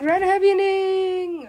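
high, loud, drawn-out order; shouted demand. Retold or imitated. Man demanding a rewrite, shouting slowly. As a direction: stretch it out as a yelled demand.

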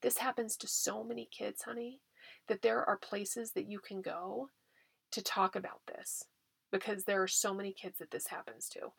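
soft, steady, confident comfort; quietly sure parent reassuring a child; calm reassurance. Shown as a demonstration. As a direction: promise the child you'll handle it. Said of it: "And that".

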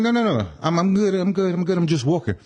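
high-pitched, insistent waving-off; retold protest. Walker retelling refusal to honking cabs, high-pitched protest.

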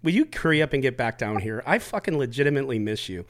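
sincere. Real, not acted. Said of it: "I just feel like saying this".

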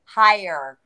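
"hire" as one emphatic word; stress on hire. Real, not acted. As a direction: say "hire" alone, drawn out and firm. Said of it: "Emphasis on hire".

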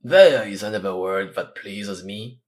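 a mild pleased cry; cried. Acted. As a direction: call it out warmly to the youth. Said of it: "cried Athos".

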